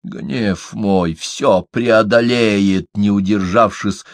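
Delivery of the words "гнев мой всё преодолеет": mocking. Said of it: "передразнил не в меру ретивую воительницу".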